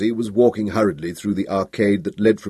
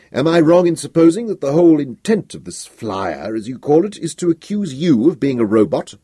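raised, indignant emperor; angry emperor; 5 semitones higher than usual. Acted. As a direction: demand it like an offended ruler.

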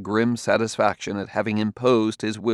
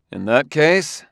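raised, forceful last resort; a touch of desperation, pitched higher; desperate; 6 semitones higher, 5 dB louder than usual. A narrator's reading. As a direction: play the final card urgently. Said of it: "throwing in all his reserves desperately".

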